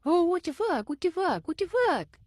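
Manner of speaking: high, loud mock scream of rage; retold furious scream. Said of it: "he's screaming".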